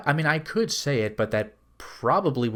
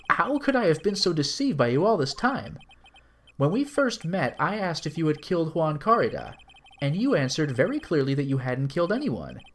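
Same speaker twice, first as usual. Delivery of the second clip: shocked defense lawyer; 2 semitones higher than usual. Acted. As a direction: confront the client who deceived you.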